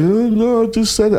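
lightly imitating little girl. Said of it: "she was like".

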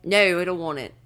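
amateur Australian, bent "No"; Australian accent. Shown as a demonstration. Going first in the challenge, Australian accent. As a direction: try it as an Australian. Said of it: "now do Australian".

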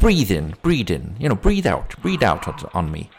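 lightly voiced policeman coaching a breath test; put-on copper voice; policeman role. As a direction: instruct her in short repeated commands. Policeman tests her breath.

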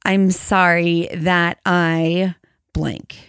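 I'm sorry that I blank, drawn out slowly; slow, named apology. Shown as a demonstration. Sincere slow apology to a spouse, naming the wrong. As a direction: take your time naming the wrong. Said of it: "So instead of saying".

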